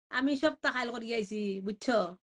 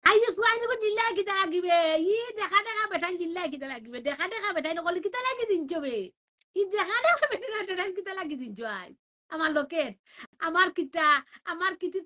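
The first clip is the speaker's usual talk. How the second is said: teasing scold; 4 semitones higher than usual. Real, not acted. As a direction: scold the gawkers in fun. Mock-scolding the onlookers. (উঁচু গলায় মজার ধমক)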